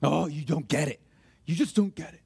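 low, resigned exasperation; frustrated. Acted. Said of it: "were so frustrated with somebody".

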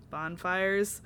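low, deadpan one-word question. Retold or imitated. Bella questioning the bonfire excuse, deadpan. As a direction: say it deadpan, unimpressed. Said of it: "like, with a deadpan voice".

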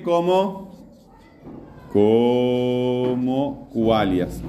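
very slow, stretched-out syllables; teacher's long, slow prompt; drawn-out prompting. Real, not acted. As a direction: stretch "como" out long as you lead the class. Drawing out the answer for class.

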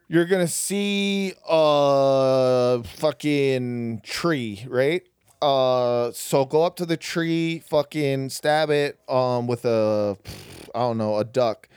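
slow, hesitant improvised instructions; making it up. Retold or imitated. God invents instructions for Moses, slowly making it up. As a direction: stall and grope for each next word. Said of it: "making that shit up completely".

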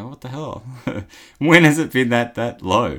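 surprised. Real, not acted. Shock at cheap petrol price.

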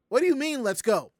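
confused. Retold or imitated. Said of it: "I'm like".

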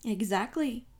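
loud, pleased confirmation; beaming approval. A narrator's reading. Poirot confirms his friend has understood, beaming. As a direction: land it with satisfaction, beaming. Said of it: "said Poirot, beaming".

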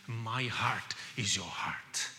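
slow intimate whisper; hushed preacher's whisper. Acted. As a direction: breathe it softly to the congregation.

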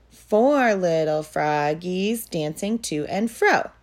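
rhythmic sing-song poem reading; poem recitation. Acted. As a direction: recite it evenly for little kids. Whole poem together.

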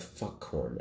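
muttered under breath. Acted. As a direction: grumble it softly under your breath. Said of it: "mutter under your breath".

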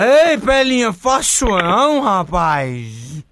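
put-on loud, slurred drunk protest. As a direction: play a sloppy drunk caller. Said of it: "o bebo rei desmantelado".

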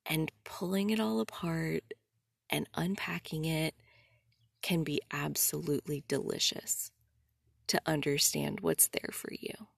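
coach's delight. Retold or imitated. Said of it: "she was like".

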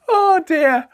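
high, loud laughing sigh; real laughed-out dismay; helpless amusement. Real, not acted. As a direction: squeal it at the end of a giggling fit. Recovering from laughing fit.

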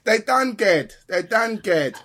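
high, laughing mock Australian twang; a playful Aussie reply, tossed off; Australian accent. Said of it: "you should do Australian".

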